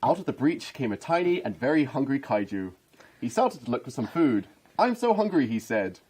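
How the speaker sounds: lilting picture-book narration; mock children's story, amused; storybook reading. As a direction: read it out like a children's bedtime book. Reads parody picture book aloud.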